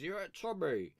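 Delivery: lightly voiced cockney gangster, slow at the end; a hint of Tom Hardy's gangster; Peaky Blinders voice. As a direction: drawl the man of God line. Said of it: "in Peaky Blinders".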